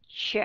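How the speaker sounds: "Ch" said as a light schwa syllable, "chuh"; schwa sound. Shown as a demonstration. Teacher showing the weak syllable of rupture, reduced. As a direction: let "Ch" fall short and unstressed. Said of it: "đọc là schwa sound".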